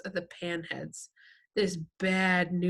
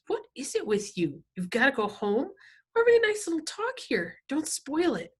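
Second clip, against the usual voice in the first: mocking gang boss; 7 semitones higher than usual. A narrator's reading.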